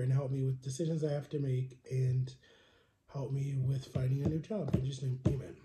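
murmured, informal mealtime prayer; spoken prayer. Real, not acted.

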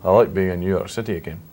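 lightly Scottish accent; a hint of a Scottish accent. Shown as a demonstration. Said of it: "In Scottish?".

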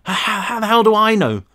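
high, snapping retort; spat. A narrator's reading. Brick snapping at Cal, high spat retort. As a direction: spit it back in panic. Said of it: "Brick spat".

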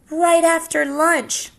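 high, very slow, sly promise; hungry snake. Acted. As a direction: lick your lips over lunch. Snake jokes about eating.

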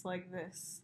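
soft whispery voice with a lisp; whispery lispy voice. Retold or imitated. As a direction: imitate a creepy soft-spoken manager. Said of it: "kinda whispery voice".

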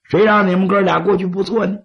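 sly, persuasive schemer; scheming adviser. Acted. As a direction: coax the chiefs toward killing. Scheming adviser speaks to chiefs.

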